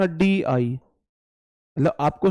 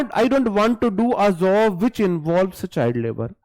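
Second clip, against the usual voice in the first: drawn-out careful English reading; slow deliberate read; 3 semitones higher, much slower than usual. Retold or imitated. Teacher reading the sentence to students, very slowly. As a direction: stretch each word out slowly. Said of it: "अब Bhati sir goes to gym".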